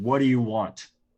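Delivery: loud, booming shout. Player's character magically making their voice boom to call out, booming yell. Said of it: "make my voice boom and just yell out".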